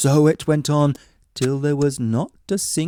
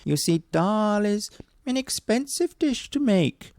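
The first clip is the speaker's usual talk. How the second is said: woodman voice; 8 semitones higher than usual. Acted. Woodman haggling.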